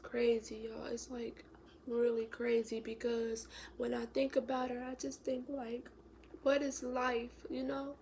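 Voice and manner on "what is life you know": a hushed, lost question; wondering in grief. Real, not acted. Grieving, asking aloud.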